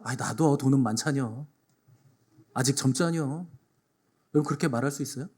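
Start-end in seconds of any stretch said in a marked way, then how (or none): 0.0-3.5 Chungcheong neighbour. Retold or imitated. Pastor voicing villagers shrugging off the youth, mild dialect. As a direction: brush it off like an old neighbour. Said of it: "사람들은".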